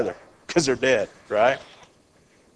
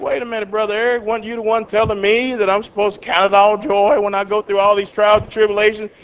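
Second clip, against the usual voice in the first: mock challenge; 4 semitones higher than usual. Confronting the preacher who complains.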